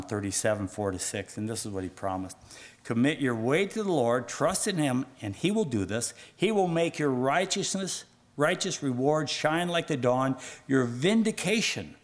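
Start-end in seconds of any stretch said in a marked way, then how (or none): 2.8-12.0 lifted, emphatic reading of a promise; declaimed scripture. Acted. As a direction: proclaim God's promise to the listeners.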